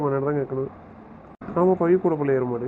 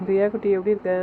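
put-on higher-pitched, affectionate greeting to a baby; baby talk; 4 semitones higher than usual. Uncle greeting baby Riya on a call, baby talk. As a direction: coo a hello to a little one.

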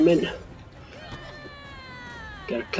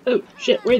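high startled oh shit; startled yelp; 12 semitones higher, 4 dB louder than usual. Real, not acted. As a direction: yelp it, caught off guard. Ambushed in game.

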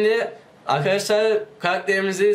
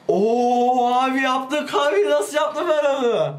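amazed delight; 5 semitones higher, slower than usual. Real, not acted. Clears hard part, amazed.

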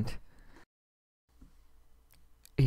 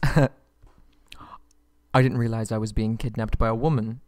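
laughing; slower than usual. Acted. Laughs at woman captain.

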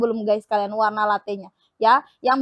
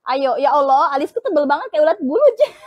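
laughing; 3 semitones higher, 6 dB louder than usual. Real, not acted. Seller laughs at her thick eyebrows.

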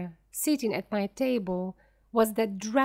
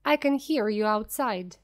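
calling out; 3 dB louder than usual. Acted. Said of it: "He called out".

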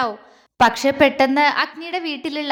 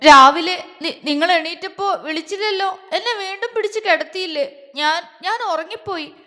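higher, halting tearful complaint; 5 semitones higher, 5 dB louder than usual. A narrator's reading. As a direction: stumble through it as if near crying. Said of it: "അവൾ കണ്ണു നിറച്ചുകൊണ്ട് വീണ്ടും പറഞ്ഞു". (കണ്ണുനിറഞ്ഞ് വിതുമ്പി)

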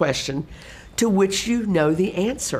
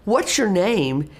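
slow, sincere real question; slower than usual. Shown as a demonstration. Teacher meeting a new student, sincere real question. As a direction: ask it like you truly want to know. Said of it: "ask it in a real voice".

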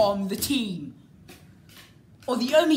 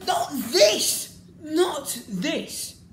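louder, higher cry of protest; exasperated shout; 6 semitones higher, 3 dB louder, much slower than usual. Real, not acted. Fan shouting at the disappointing suit design. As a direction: reject it outright. Disgusted at the new suits.

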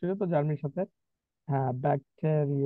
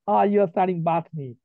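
put-on American accent; 2 semitones higher, 5 dB louder, much slower than usual. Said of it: "American অনেক সুন্দর".

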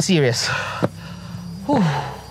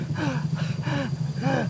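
breathless gasp; 9 semitones higher, 9 dB quieter than usual. Retold or imitated. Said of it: "I was like".

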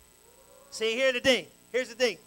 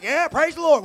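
mock churchgoer; 5 semitones higher, 9 dB louder than usual. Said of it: "They're like".

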